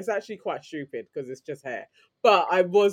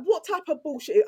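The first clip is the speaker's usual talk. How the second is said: retold outrage; 10 semitones higher than usual. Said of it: "I was like".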